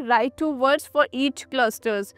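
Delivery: slow, clear classroom instruction; teacher giving the task slowly. Retold or imitated. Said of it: "आप students को बोलेंगे".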